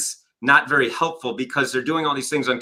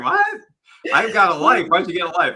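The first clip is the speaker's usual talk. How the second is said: mock cool kids; 5 semitones higher than usual. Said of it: "all the cool kids are going".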